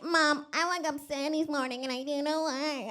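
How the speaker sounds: high, mock-pitiful daughter voice; playing herself as a sad kid calling mom; whiny daughter. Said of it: "and I'm like".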